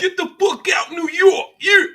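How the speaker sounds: high, loud shout of disbelief; incredulous shout. Real, not acted. Streamer reacting to a fake New York claim, incredulous shout. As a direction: yell it like you can't believe it.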